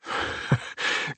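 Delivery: quiet airy laugh under the breath; soft breathy chuckle. Acted. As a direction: chuckle softly, amused. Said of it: "He chuckled".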